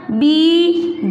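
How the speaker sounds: बीजली split slowly into बी...ज...ली; syllable by syllable. Shown as a demonstration. Teacher building a word for pupils, syllable by syllable. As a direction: sound out बीजली in separate syllables. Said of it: "क्या बनेगा बेटा?".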